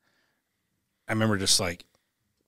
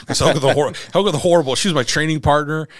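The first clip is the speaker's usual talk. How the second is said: laughing loudly through the nickname; cracking up over the nickname Helga; 6 semitones higher, 9 dB louder than usual. Real, not acted. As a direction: laugh it out, higher and louder. Laughing while naming wife's nickname.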